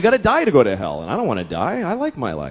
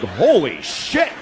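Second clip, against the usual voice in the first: mock panic; 7 semitones higher than usual. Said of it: "and I'm like".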